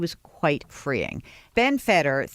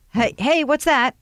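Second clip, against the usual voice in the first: voicing the dog; 11 semitones higher, 5 dB louder than usual. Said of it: "dog thinking, like".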